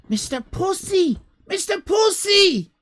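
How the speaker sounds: bill the act with a big shout; announcer shout. Pretend. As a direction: showman calling out the name. Repeating the name.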